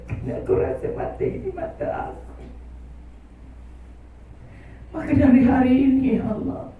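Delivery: earnest, softening plea of repentance; heartfelt prayer. Acted. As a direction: lead the crowd in a tearful confession.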